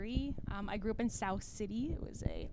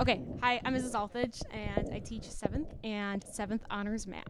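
louder, brighter introduction; energetic retake; 4 dB louder than usual. Real, not acted. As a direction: redo it with more energy. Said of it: "Wait, Miss Olthage".

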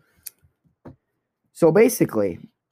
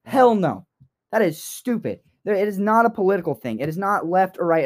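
impassioned rant; 5 semitones higher than usual. Real, not acted. Passionate rant about deportations.

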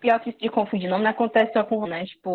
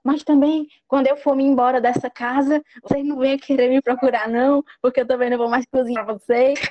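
higher, louder mock grievance; complaining grandma; 5 semitones higher, 4 dB louder than usual. Grandma threatens to stop cooking, raised mock-indignant complaint. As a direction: scold in a raised, offended pitch. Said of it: "da pessoa que fala assim".

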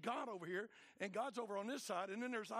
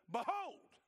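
booming behold; 7 semitones higher, 5 dB louder than usual. Acted. God rebukes through Isaiah.

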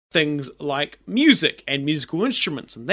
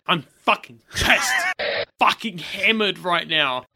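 tipsy slurred talk; 3 semitones higher than usual. Real, not acted. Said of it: "I'm quite drunk".

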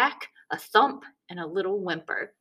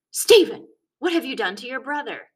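sudden loud, high alarmed yell of his name; a mother bursting in alarmed; mother shouting; 6 semitones higher, 7 dB louder than usual. A narrator's reading. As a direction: mom yelling at her son on seeing blood.

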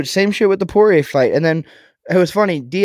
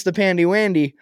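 put-on cutesy baby talk; 2 semitones higher than usual. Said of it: "as Chris DiStefano would put it".

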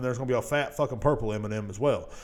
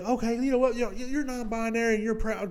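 a higher, hammed-up corporate voice; mock corporate voice; 8 semitones higher than usual. Mocking the candy brand's announcement to non-binary fans, high and hammed-up. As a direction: play the company announcing it proudly.

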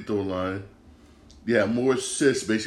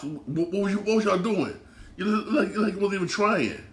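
high, laughing scoff at the team; laughing in disbelief; 9 semitones higher than usual. Real, not acted. Mocking the team's effort.

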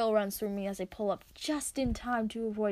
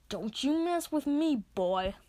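mock yell; 3 semitones higher, slower than usual. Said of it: "they yell".

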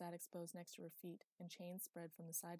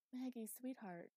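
higher, coaxing voice; gently comforting; 6 semitones higher than usual. A narrator's reading. Phoebe trying to comfort the girl, gently coaxing. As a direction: lightly soothe a frightened child. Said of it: "trying to comfort her".

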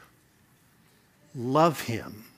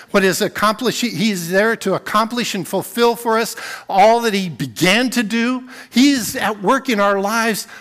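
louder, higher preaching push; full-force preaching; 4 semitones higher, 6 dB louder than usual. Acted. Pastor to congregation, preaching hard on God's part. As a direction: drive the point home to the congregation.

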